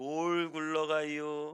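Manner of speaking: Chungcheong regional dialect delivery. Explaining a phrase by repeating it in Chungcheong dialect. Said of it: "충청도식 사투리로".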